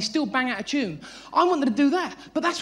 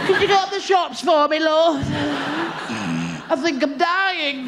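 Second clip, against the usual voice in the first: whiny sick bloke; slower than usual. Retold or imitated. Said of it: "He's like that".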